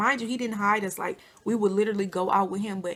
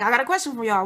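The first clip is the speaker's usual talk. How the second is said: his way of talking; 4 dB louder, faster than usual. Retold or imitated. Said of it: "That's how he talk".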